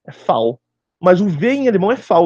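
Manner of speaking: V named "fal", German style; German letter V. Shown as a demonstration. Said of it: "A letra V é fal".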